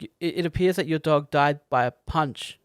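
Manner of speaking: imitating a deadpan report, no reaction; deadpan, straight. Film fan quoting the vet on how the dog died, deadpan. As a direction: deliver the absurd finding completely straight. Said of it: "it's so deadpan and so straight, the delivery".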